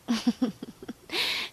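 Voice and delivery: teasing laugh. Pretend. Teasing the listener.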